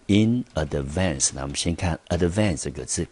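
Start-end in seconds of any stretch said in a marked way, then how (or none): 0.1-1.3 "in advance" said slowly, each word clear; pronunciation demo. Shown as a demonstration. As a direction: model "in advance" slowly for learners. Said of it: "就念成". (慢速示范念in advance)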